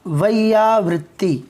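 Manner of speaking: वैयावृत्ति said slowly, each syllable clear; careful Sanskrit pronunciation. Shown as a demonstration. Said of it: "हमने पढ़ा".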